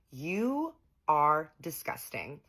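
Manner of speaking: slow, cold and cutting; slow icy verdict to the ex; cold disgust. Retold or imitated. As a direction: lay each word down slowly with contempt. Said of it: "I was like".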